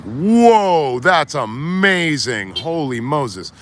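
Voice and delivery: drawn-out awed reaction, trailing down; exaggerated wonder, slowly savoured; mock amazement. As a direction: imitate a wowed reader, stretching the words. Retold reaction to a book.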